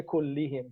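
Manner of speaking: Kullihim with i vowels, as the rejected form; wrong form Kullihim. Shown as a demonstration. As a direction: contrast Kullihim against Kulluhum. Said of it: "He didn't say".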